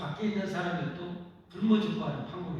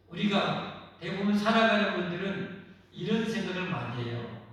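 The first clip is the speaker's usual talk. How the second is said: ordinary talk, nothing marked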